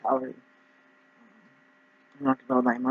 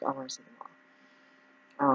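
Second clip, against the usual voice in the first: drawn-out high plea; 11 semitones higher, 9 dB quieter, much slower than usual. Retold or imitated. Eager pitch to insurers.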